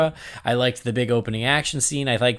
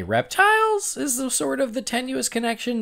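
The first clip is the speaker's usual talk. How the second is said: grudging concession; 11 semitones higher than usual. Retold or imitated.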